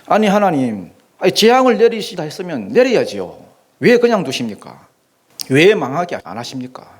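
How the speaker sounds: acted indignant protest to God; mildly angry complaint. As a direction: protest with a touch of mock anger. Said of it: "막 성을 냅니다".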